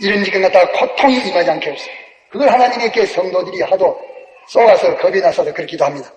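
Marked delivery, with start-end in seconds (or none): 0.0-1.9 mild pleading prayer; lightly voiced fearful believer praying; imitated prayer. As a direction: pray it a touch anxiously. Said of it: "이러기 때문에 기도하기를".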